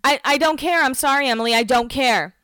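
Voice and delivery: mock-heated refusal; hammed-up mild defiance; defiant. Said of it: "Emily's like".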